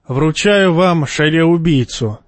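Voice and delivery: "шаре-убийцу" with a lisped sh for ts, slow and solemn; slushy sh for s. A narrator's reading. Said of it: "торжественно и шепеляво".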